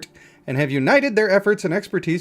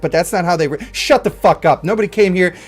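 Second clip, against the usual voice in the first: hammed-up rant, louder and fast; mock argument; 4 dB louder than usual. Streamer ranting at imaginary chatter who doubts his robot, mock anger. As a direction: berate an imaginary heckler in mock fury.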